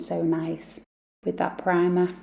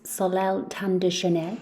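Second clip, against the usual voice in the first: a lightly posh French accent on the brand name; mock-fancy French for Soleil Tan de Chanel. Shown as a demonstration. Vlogger mock-fancy French brand name for viewers. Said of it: "have to say that in a fancy accent".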